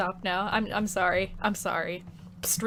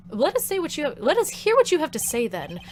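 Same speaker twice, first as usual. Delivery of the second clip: put-on Canadian accent; 6 semitones higher than usual. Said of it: "I can't do a Canadian accent".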